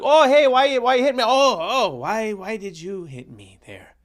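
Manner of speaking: hammed-up wounded whimper; Justin Trudeau impression. Mocking Trudeau after being punched, whiny and high. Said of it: "Oh, he's like".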